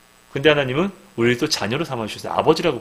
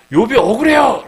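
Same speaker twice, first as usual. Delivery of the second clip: higher, louder cry of unfairness; indignant protest; 11 semitones higher, 8 dB louder than usual. Acted. Voicing people complaining for Job.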